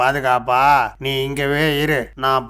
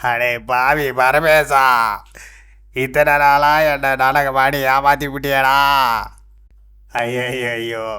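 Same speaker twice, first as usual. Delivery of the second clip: drawn-out theatrical wailing; anguished lament. Acted. Sage cheated of his money by his disciple, wailing. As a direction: bewail the betrayal, stretching the line endings.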